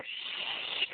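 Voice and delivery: unvoiced shush. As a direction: hiss for silence like annoyed moviegoers. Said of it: "They're like".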